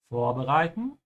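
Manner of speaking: vorbereiten stressed on VOR; VOR-bereiten, emphasis at the beginning; stress on first syllable. Shown as a demonstration. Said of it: "make sure you emphasize the beginning".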